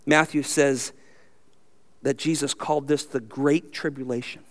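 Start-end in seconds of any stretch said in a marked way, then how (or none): 3.0-4.4 weight on "Great" in "Great Tribulation"; "Great" stressed and set apart. Shown as a demonstration. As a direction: lean on the word "Great", keeping the voice low. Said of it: "Emphasis on that word".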